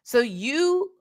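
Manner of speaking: mock indignant cross-examination; incredulous retold question. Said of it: "I said".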